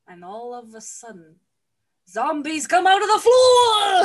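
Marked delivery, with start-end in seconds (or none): 2.1-4.0 higher, much louder dramatic shout; storyteller hitting the spooky twist; excited shout. Real, not acted. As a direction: blurt the reveal at full volume. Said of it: "dramatic reveal, shouted".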